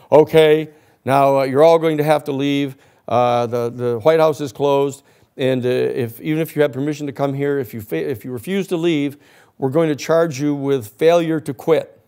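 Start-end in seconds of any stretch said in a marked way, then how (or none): 0.1-9.2 loud official order to leave the White House; bullhorn announcement. Retold or imitated. Officer ordering protesters out, mock official and loud. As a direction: bark it out like a cop on a bullhorn. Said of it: "and they said".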